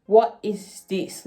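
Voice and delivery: drawn-out confused question; stunned, slowed-down what is this; retold bewilderment. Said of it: "and I was just like".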